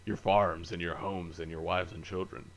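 holding back a burp; stifled burp. Real, not acted. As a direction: speak while suppressing a burp. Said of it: "Was that your Tyrion impression?".

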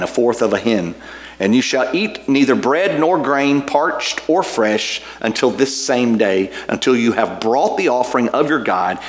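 measured, solemn Bible reading; scripture reading. Acted. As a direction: read the passage with reverence. Reads scripture aloud.

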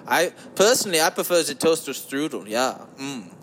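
lightly voiced cheesy smooth-talker; a hint of a lounge-lizard croon; put-on smooth voice. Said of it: "I can't do the whole podcast like".

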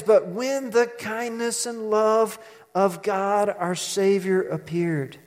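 slow, solemn reading of scripture; solemn Bible reading. Acted. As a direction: read the verse slowly and reverently. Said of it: "And it says".

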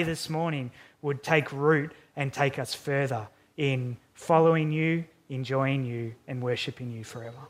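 hushed, earnest prayer voice. Real, not acted. Pastor praying for the congregation, humble prayer. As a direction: pray it humbly.

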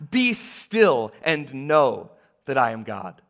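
loud, slow, firm command; firm shout. Shown as a demonstration. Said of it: "more like a firm shout".

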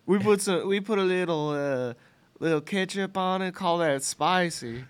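high-pitched mock Southern accent. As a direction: play a proud Southern cook, accent and all. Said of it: "I don't know why we do Southern accents".

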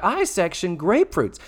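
high bratty mock complaint; shittily. Girl boasting of her kitchen sacrifice, mock bratty. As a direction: imitate a schoolgirl listing her chore. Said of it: "shittily, I will add".

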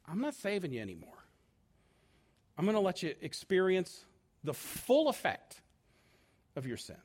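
quiet, sober voice of God; God's grave verdict. Acted. God hands sinners over to their sin, quiet and grave. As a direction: pronounce it softly, letting the last words sink. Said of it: "God's gonna say".

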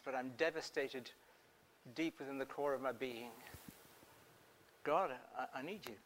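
a hint of a hushed, pleading believer; acted prayer. Preacher voices an anguished prayer.

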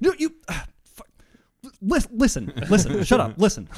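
high loud flustered yelling; mock angry argument. Podcaster acting out his own angry argument, high and loud. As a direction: sputter angrily in a fight.

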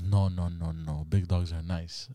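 low, soft, slowing murmur; sleep talking. Retold or imitated. Dreaming boyfriend answering girlfriend about big dogs, sleepy murmur. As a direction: imitate drowsy reassurance from a dream. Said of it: "I'm dreaming".

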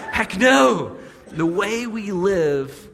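loud, slow, laughing heck no; emphatic heck no. Shown as a demonstration. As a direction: belt it out through a laugh. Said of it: "I just can't do it".

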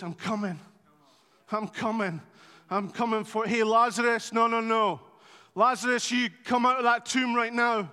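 calls Lazarus out loud, with rising force; commanding call. Acted. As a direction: order him out of that tomb.

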